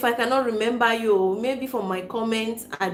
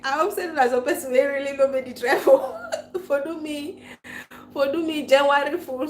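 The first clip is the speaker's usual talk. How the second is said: talking through laughter, a little higher; half-laughing disbelief at a prank; laughing through words; 4 semitones higher than usual. Real, not acted. Streamer reading a viewer's prank comment, laughing.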